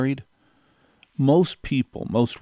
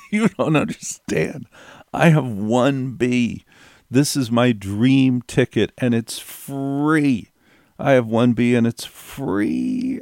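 insistent; 2 semitones higher, slower than usual. Retold or imitated. Insisting about his dream ticket.

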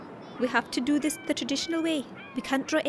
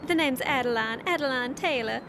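put-on Southern accent. Irish traveler inventing Adeline from Georgia, in a Southern accent. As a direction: play a folksy Southerner from Georgia. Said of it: "Why can you do a southern accent?".

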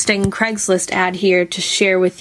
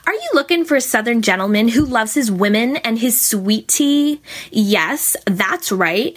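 put-on teenage girl voice; 2 semitones higher than usual. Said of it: "try this in my best teenage voice".

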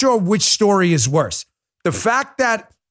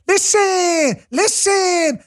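mimicking a politician; 7 semitones higher, much slower than usual. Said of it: "what was she like?".

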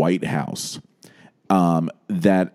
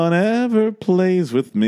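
mock whine; 9 semitones higher, slower than usual. Mock sulking complaint.

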